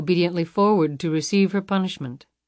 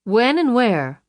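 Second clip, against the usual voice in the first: sharp, louder demand; curt demand; 6 semitones higher, 5 dB louder, slower than usual. A narrator's reading. Luann demands to know when and where, sharp and louder. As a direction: Luann cuts him off, demanding the meeting.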